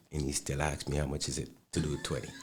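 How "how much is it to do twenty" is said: fast, laughing through the quoted question; can barely get the words out for laughing. Retold or imitated. Retelling a kid's CD question to the host, laughing.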